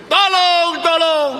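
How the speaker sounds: high, loud acted shout for rescue; high-pitched cry for help. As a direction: yell out from down in a pit. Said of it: "Dia teriak lagi".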